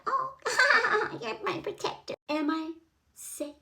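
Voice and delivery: soft, breathy damsel with a giggle; mock swooning. Woman gushing to her self-declared protector, mock swooning. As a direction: sigh it in hushed fake adoration.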